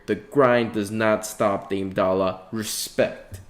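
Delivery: drawn-out, sarcastic hype ending in a voiceless "respect"; sarcastic tribute, slowing right down; mock reverence. Fan hyping a star's grind, sarcastically. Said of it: "That was sarcasm".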